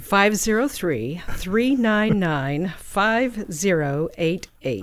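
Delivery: slow, deliberate anchor read; news anchor voice. Shown as a demonstration. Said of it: "give me your news anchor voice now".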